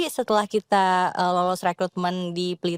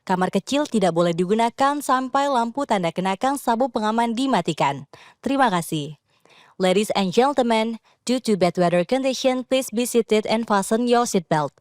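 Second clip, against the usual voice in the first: calm formal in-flight announcement; cabin crew announcement. Shown as a demonstration. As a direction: read it like a flight attendant on the PA. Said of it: "Boleh silakan, Mbak Karisa".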